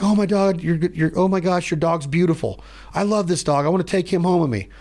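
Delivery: mock swooning over the dog; gushing visitor. Non-hunter gushing over the dog.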